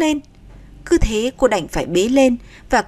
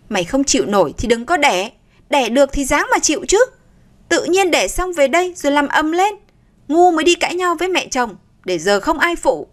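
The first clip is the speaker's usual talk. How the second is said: scolding rebuke; 5 semitones higher than usual. Acted. Mother-in-law scolding Nga.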